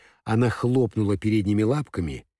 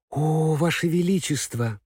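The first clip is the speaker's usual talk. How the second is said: exclaiming; 6 semitones higher than usual. Acted. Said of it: "воскликнула Элли".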